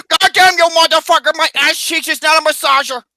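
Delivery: high hammed-up angry protest; mock outraged yell. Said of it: "You'll be like".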